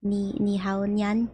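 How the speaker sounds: slow drawn-out cutesy greeting; cutesy nya speak. Pretend. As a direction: stretch each syllable like a cute cat. Coaxing friend into dance.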